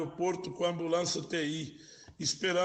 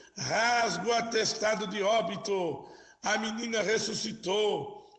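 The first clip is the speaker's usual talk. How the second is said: acted crying out through tears, shouting; 3 semitones higher than usual. Telling how a nurse ran out after the girl revived, mock shouting and crying. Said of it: "saiu gritando, chorando e dizendo".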